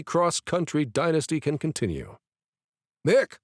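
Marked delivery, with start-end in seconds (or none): 3.0-3.4 loud, sharp call of a name. A narrator's reading. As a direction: call him back from a daydream. Brother calls to snap him out.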